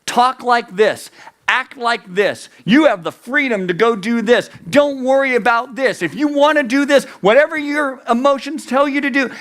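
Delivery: mock shouting without much volume, pressing each order; judges shouting. Judges one and three pushing us around, mock shouting. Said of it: "judges one and three shouting at us".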